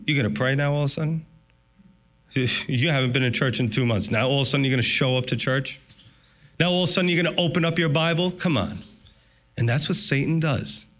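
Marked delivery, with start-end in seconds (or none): 0.1-8.8 mocking taunt. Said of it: "he whispers and he says".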